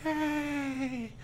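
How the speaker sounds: high happy yay; happy cheer. Acted. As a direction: cheer it happily. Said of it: "Erin cried happily".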